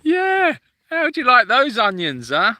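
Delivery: high, loud, hammed-up soap tough guy; Grant or Phil Mitchell. Showing off a soap impersonation, hammed-up tough guy. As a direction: put on a strained EastEnders bruiser. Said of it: "doing a Grant or Phil Mitchell impersonation".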